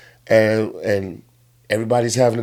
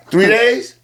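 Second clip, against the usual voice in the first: "Three days?" with a sharp rising question tune; incredulous question; 8 semitones higher, 4 dB louder than usual. Acted. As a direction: ask "Three days?" in disbelief, pitch climbing on days. Jesus asks God in disbelief.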